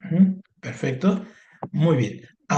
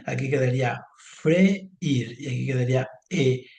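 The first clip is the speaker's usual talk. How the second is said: slow dictation. Shown as a demonstration. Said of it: "¿cómo voy a separar estas?".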